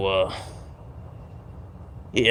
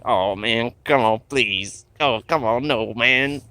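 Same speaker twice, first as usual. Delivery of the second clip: drawn-out desperate plea; 3 semitones higher, much slower than usual. Pretend. Final begging before the probe.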